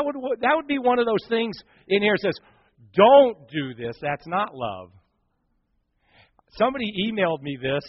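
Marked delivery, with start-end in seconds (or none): 2.9-4.9 loud, slow, firm warning. Acted. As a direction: lean hard on "Don't", slowly.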